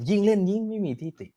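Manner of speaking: quoting own catchphrase. Retold or imitated. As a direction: replay the catchphrase ยิ่งเล่นยิ่งไม่มีทิฐิ high and theatrical. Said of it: "เมื่อวานผมพูดคำนี้เลยใน reaction".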